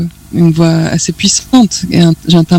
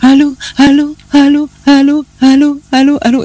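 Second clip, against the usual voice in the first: imitating a singer's allô; 8 semitones higher than usual. Guest imitates a singer's song for the host, high and pleading. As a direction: echo the singer's anxious calling allô, allô on the phone. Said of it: "Elle fait allô".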